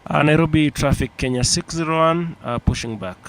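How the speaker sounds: pilot radio call. Pretend. Pilot calling the tower.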